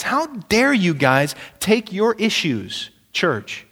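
exasperated apostle chiding bickering believers; indignant rebuke. Retold or imitated. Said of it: "he throws a fastball and says".

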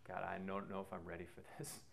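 whispered dread; breathy whisper. Retold or imitated. Whispered to himself as his friend throws it back. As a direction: hush it out, half to yourself, dreading what comes. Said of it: "And I just went".

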